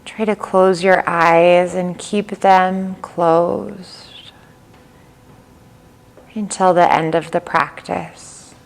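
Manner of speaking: calm yoga nidra guide, long pauses between phrases; even, unhurried delivery with little pitch movement; guided meditation. Real, not acted. Leads yoga nidra practice.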